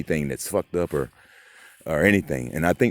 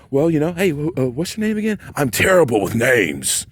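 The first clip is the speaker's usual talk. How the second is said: fake friendly helper; 7 semitones higher than usual. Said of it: "And he's like".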